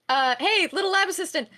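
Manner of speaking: high, sing-song motherly call across the lab. Acted. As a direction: call him like a mom summoning her kid. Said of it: "Oh my god, I sound like my mother".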